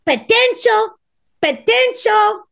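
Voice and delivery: high, drawn-out hopeful potential; dreamy hoping. Retold or imitated. Woman meeting a new man, dreamy hoping. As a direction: coo it like a hopeful dater. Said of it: "you're like".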